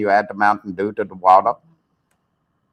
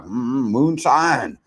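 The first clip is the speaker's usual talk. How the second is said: mock savoring; much slower than usual. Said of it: "He's like".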